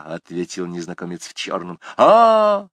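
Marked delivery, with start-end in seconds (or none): 2.0-2.7 startled. A narrator's reading. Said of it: "произнёс Юпитер".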